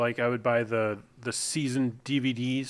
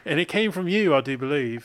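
put-on playful British accent; loosely mock-British; 3 dB louder than usual. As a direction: lay on a British turn of phrase. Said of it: "he's doing it".

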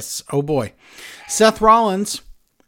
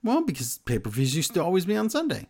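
soft breathy explanation; whispered; 4 semitones higher, 5 dB quieter than usual. Real, not acted. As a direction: whisper the aside. Whispered aside.

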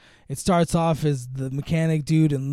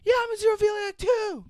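mock reveal. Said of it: "she reveals, like".

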